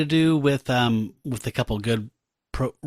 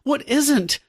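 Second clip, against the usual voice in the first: much higher and louder, clinging plea; hammed-up damsel; 12 semitones higher, 4 dB louder, slower than usual. Tigra throws herself at Hank, hammed-up damsel plea. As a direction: squeal it like a swooning damsel. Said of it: "she's like".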